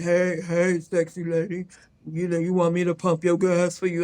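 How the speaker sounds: very deep, rumbling, flirtatious low voice. Retelling a man calling to her at the gas pump, deep rumbling voice. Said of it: "I hear this deep voice".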